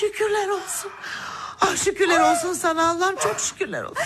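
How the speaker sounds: tearful, high thanks breaking into a laugh; crying with joy. Acted. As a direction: sob out grateful thanks. Kızı yürüyünce sevinç gözyaşları. (sevinçten ağlayarak)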